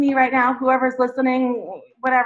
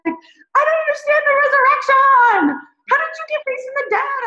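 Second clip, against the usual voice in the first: much higher, puzzled inner voice; bewildered question; 13 semitones higher than usual. Retold or imitated. Remembering the sermon, high puzzled plea about resurrection. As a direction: plead to understand, pitched high. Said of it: "And I'm like".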